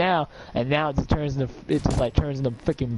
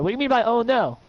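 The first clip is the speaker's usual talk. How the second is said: puzzled; 6 semitones higher than usual. Retold or imitated. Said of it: "You're like".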